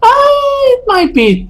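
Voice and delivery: laughing. Real, not acted. GM cracks up mid answer.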